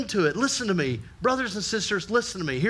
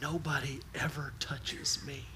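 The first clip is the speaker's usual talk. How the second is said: soft, muffled voice; a healed leper, muffled against Jesus' chest, tearful; muffled, sobbing; 3 semitones lower, 11 dB quieter than usual. Retold or imitated. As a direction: speak as if pressed into someone's chest, near tears. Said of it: "his muffled voice up against Jesus' chest".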